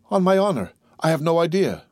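earnest protest. Acted. Prisoner swears to the gendarme he knows nothing, earnest protest.

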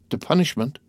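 high-pitched, startled question; exclaiming. A narrator's reading. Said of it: "exclaimed Madame de Villefort".

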